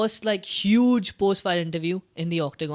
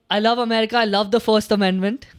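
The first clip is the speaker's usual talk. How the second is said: mock shouted call-out; 2 semitones higher, 4 dB louder than usual. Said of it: "He's like".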